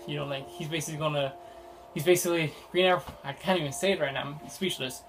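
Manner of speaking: breathless, running out of air; out of breath. Real, not acted. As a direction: talk while short of breath. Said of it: "because I'm running out of breath".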